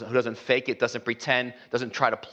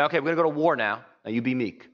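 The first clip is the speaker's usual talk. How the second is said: mock general; 2 semitones higher than usual. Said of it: "generals to their troops say".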